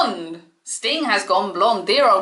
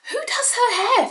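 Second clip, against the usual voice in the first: laughing. Real, not acted. Mocking friend's odd hairdo.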